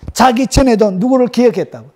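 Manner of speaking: normal talking voice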